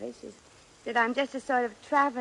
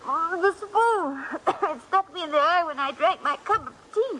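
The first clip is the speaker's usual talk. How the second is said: prim put-on English accent from behind a napkin; hiding her face, still faking British; fake British accent, higher and slow; 7 semitones higher than usual. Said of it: "your accent".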